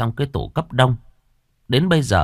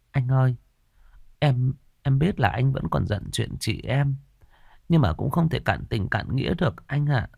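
put-on hesitant young woman; 4 semitones higher than usual. Sister-in-law hesitantly asks husband.

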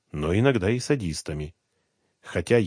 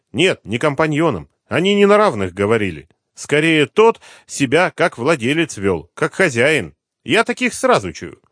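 put-on higher, louder voice of a sulky young mistress; young woman; 7 semitones higher, 7 dB louder than usual. Kept woman answers the detective's questions, sulky. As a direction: answer him with a sulky edge.

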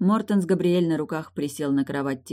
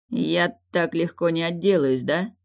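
plain reading voice

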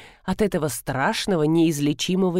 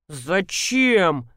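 through the teeth. Acted. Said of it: "процедил Дегтярев".

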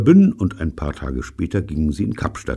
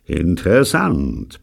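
slow, drawn-out grumble; grumbling; 3 dB louder, slower than usual. Acted. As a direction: grumble it menacingly. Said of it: "brummte er". (langsam gebrummt)

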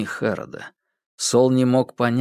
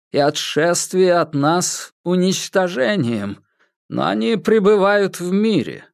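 solemn, raised preaching read; scripture reading; 7 semitones higher than usual. Acted. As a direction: intone it like a sermon over the dead. Reading scripture over chess game.

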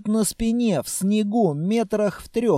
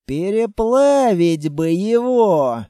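slow, louder longing wish; dreamily relishing the thought; dreamy; 2 semitones higher, 5 dB louder, slower than usual. A narrator's reading. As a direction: savour the idea. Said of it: "мечтательно произнёс Строгов".

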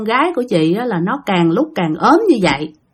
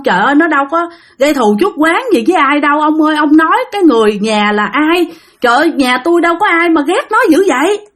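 crying grandmother; 3 semitones higher than usual. Acted. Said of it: "bà ngoại khóc quá trời".

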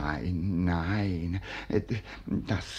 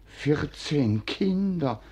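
aghast; 4 semitones higher than usual. Acted. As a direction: spell out the number in shock. Old man aghast at fourteen children.

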